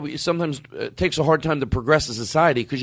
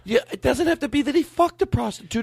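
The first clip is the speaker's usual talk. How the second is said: put-on lightly high girlfriend voice; woman's voice; 7 semitones higher than usual. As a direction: keep playing the girlfriend, higher. Continues girlfriend voice.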